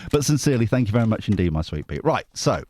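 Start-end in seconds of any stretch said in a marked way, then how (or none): none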